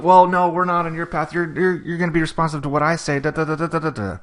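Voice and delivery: mock judge overruling him. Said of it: "And she says".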